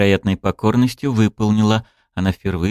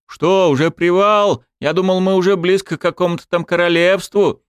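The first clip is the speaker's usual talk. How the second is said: grumbling soldier; 11 semitones higher than usual. Acted.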